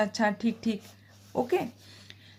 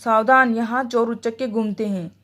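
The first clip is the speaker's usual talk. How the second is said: a raised warning cry, सावधान loud and falling; 4 dB louder than usual. Shown as a demonstration. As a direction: call out the warning sharply, louder on सावधान. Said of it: "सावधानी सूचक शब्द".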